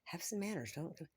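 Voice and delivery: high, exasperated yelp at the intruder; indignant outburst. Retold or imitated. Imitating her old reaction when someone walks into the bathroom, indignant. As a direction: act out the outrage you used to throw. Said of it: "instead of me going".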